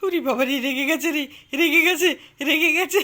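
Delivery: laughing teasingly. Real, not acted. Mother laughing at her son sulking over no toy.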